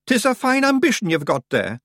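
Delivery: high, loud broad Scottish pixie voice; a cocky wee Scots fighter; tiny Scots warrior. Acted. Rob Anybody answering the boy, high broad Scots.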